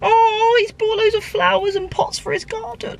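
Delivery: high, excited aside. Real, not acted. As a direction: gasp with delight at it. Excited seeing neighbor's garden.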